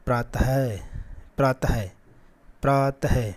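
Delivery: प्रातः with a breathy h release at the end; visarga pratah. Shown as a demonstration. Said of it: "इसको क्या बोलना है".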